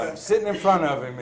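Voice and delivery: laughing as he tells it. Real, not acted. Facing the big counselor, laughing. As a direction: let a laugh through the words.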